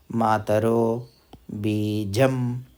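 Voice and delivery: usual speaking voice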